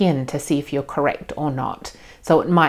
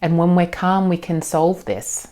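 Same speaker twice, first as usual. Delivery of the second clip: reassuring parent; 3 semitones higher than usual. Shown as a demonstration. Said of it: "and then you can just say".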